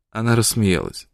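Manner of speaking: usual speaking voice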